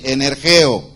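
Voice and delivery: "energeo" repetido tal como suena; pronunciado como suena. Shown as a demonstration. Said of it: "así como se oye". (energeo, tal como suena)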